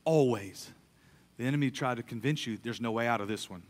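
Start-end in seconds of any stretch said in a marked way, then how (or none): 0.0-0.7 "always" drawn out, low and weighty; "always" given full weight; stress on always. Shown as a demonstration. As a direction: lean hard into "always". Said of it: "I wanna emphasize this word here".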